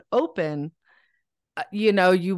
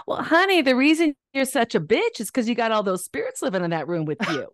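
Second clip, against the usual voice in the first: put-on Southern grandma accent; 4 semitones higher than usual. Grandma teasing her granddaughter in a Southern accent. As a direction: imitate a Southern grandma with a sly bite. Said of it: "she had a Southern accent".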